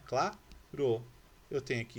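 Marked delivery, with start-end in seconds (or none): 0.0-0.4 "claro" broken into two syllables, cla, ro; split into syllables. Shown as a demonstration. Teacher showing the class the separated word, "claro" syllable by syllable. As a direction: pause between the syllables of "claro". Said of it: "Separei a palavrinha".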